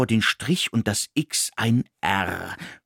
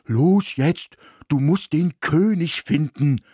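dog Ismir interrupts the daydream, urgent; urgent interruption; 5 semitones higher than usual. A narrator's reading. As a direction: snap him out of his daydream. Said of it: "unterbrach Ismir".

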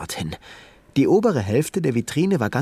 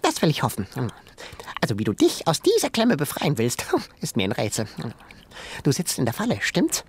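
bossy little shrew; 3 semitones higher, faster than usual. Acted. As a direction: play the cheeky little animal, scolding. Shrew character voice.

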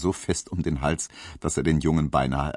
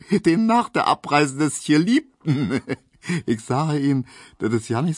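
chuckling through the words with a couple of laughs; amused, laughing at the clumsy letter; mocking colleague laughing as he explains; 5 semitones higher than usual. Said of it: "sagte Herr Tesch lachend".

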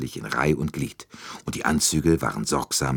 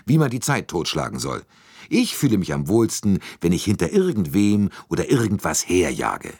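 a hint of an impatient American, a bit higher and louder; restless, fed-up, lightly raised voice; lightly voiced restless American; 4 semitones higher, 3 dB louder than usual. Hardman complains about idleness. (ein ungeduldiger Amerikaner, leicht gespielt)

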